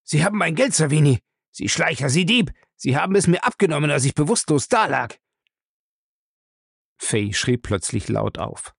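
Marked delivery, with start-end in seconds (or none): 0.0-5.2 crazed with fear. Acted. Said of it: "verrückt vor Furcht".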